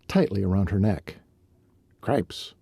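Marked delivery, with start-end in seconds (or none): 2.0-2.5 breathy whispered curse. A narrator's reading. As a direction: whisper it under your breath. Shivering in the cold morning.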